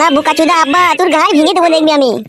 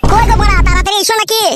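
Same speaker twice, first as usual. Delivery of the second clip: calling out for father; 8 semitones higher than usual. Acted. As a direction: cry out for your father across the house.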